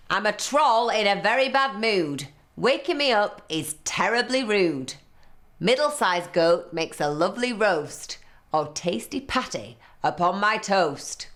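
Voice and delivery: a sore-headed troll growling his rhyme; grumpy troll. Acted. Troll threatening the little goat, grumpy and loud.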